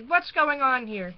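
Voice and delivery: loud, slow demanding question; angry demand. Acted. Girl demanding an explanation, angry and loud. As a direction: insist on an answer. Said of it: "I cried out angrily".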